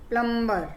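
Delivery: "प्लम्बर" with the B barely sounded; silent B. Shown as a demonstration. Teacher showing silent B in "प्लम्बर", only a faint B. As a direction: let the B in "प्लम्बर" almost vanish. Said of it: "यहाँ पे भी बी silent".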